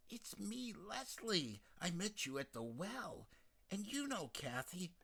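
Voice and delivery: lightly voiced eager young woman; insistent reminder. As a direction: remind her who you are. Leslie insists Yvette knows her.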